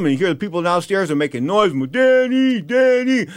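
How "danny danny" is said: high, loud call across the room. Retold or imitated. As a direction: call the name out urgently. Calling out to security guy.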